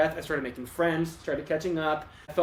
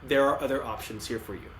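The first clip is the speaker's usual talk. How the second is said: softer, gentle reassurance; calming teacher voice; 3 semitones lower, 4 dB quieter than usual. Retold or imitated. Teacher soothing a panicking student, softer and calming. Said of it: "just those calming presences".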